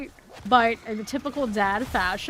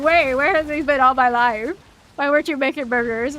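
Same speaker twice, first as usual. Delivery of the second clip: amazed; 4 semitones higher, 8 dB louder than usual. Retold or imitated. Retells own amazed thought.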